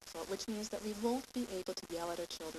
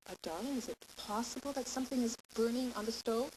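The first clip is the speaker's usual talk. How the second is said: carefully polite, tentative question. Shown as a demonstration. Wife to partner who's cooking, tentative. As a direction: float it gently as a mere possibility. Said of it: "you have to be very tentative".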